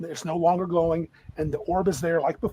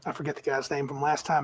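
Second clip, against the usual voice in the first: normal talking voice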